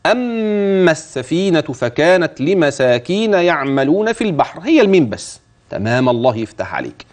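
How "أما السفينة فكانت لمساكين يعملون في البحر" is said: slow chanted tajweed recitation; student-style Quranic recitation. Shown as a demonstration. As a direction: recite slowly with long vowels. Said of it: "طب قول لي".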